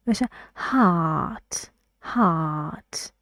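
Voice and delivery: هات with a long open back ah; British hot vowel. Shown as a demonstration. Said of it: "فقط نباشه هات".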